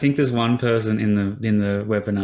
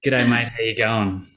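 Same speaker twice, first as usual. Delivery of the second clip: Australian accent. Shown as a demonstration.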